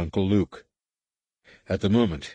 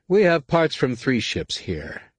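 evenly; 7 semitones higher, slower than usual. A narrator's reading. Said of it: "Anakin said evenly".

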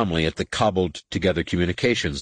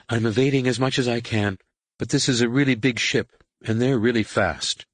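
higher, lightly voiced character under pressure; protesting pilot; 4 semitones higher than usual. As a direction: push back in a raised pitch. Voices Tahiri protesting under attack.

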